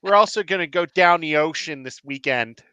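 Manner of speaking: put-on light Baltimore local accent. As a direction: say it like a Balmer local. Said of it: "one thing that people in Baltimore say".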